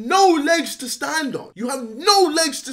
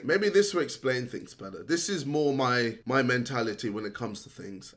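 disappointed; 10 semitones lower, 5 dB quieter than usual. Real, not acted. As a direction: quietly let him down. Calm disappointed lecture.

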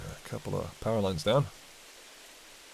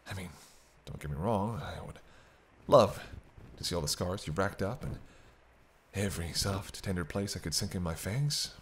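sultry murmur; 7 dB quieter than usual. Acted. Seductive talk of biting Hunter.

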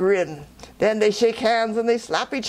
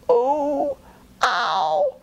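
yelping in pain; 14 semitones higher, much slower than usual. Acted. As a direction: yelp each ouch as if thorns stab. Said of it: "he yell".

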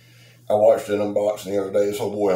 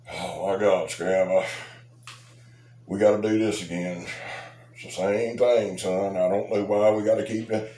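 mock whiny viewer. Mocking a grumbling viewer.

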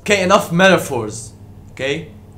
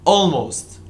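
"almost" set apart after a pause; "almost" said alone, as a pointed correction; emphasis on almost. Real, not acted. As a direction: repeat "almost" on its own as the key word, falling at the end. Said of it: "Emphasis on the word".

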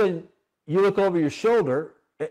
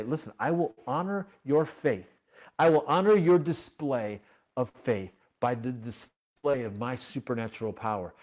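God's promise; 2 semitones lower than usual. Acted. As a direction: speak it gently, like a promise. God's promise voiced softly.

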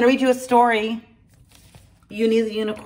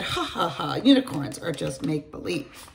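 mocking laugh; 3 semitones lower than usual. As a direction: brush it off with a gentle mock. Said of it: "her friend said".

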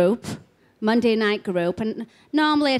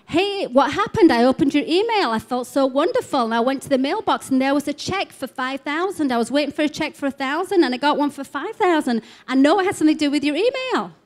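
higher, eager, breathless-seeming report of good news; excited retelling; 4 semitones higher than usual. Retold or imitated. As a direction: read it like a thrilled fan who can't believe her luck. Another excited email, acted out.

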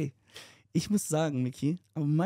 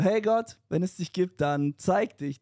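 lightly imitating the friend; 4 semitones higher, 3 dB louder, slower than usual. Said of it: "O-Ton, genau so hat das gemacht".

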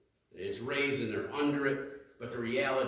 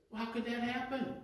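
raised, louder repeated questions; echoing the congregation's bewildered questions; exasperated questioning; 7 semitones higher, 3 dB louder than usual. Retold or imitated. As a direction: demand to know how it could happen. Voicing people asking questions.

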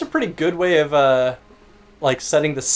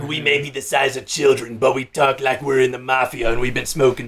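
rough smoker's mafia voice; smoker mobster; 2 semitones lower than usual. Acted. Player imagining a tiny tough guy, rough smoker voice. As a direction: talk like a child-sized chain-smoking mobster. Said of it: "it'd be like the Turtles".

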